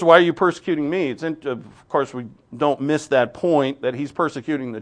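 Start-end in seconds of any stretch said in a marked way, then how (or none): 0.0-1.1 raised, fast rebuke of Christ's question; pushed up high and loud, hurried; emphatic quote. Retold or imitated. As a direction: ring it out high and quick as Christ's challenge. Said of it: "repeating Christ's words".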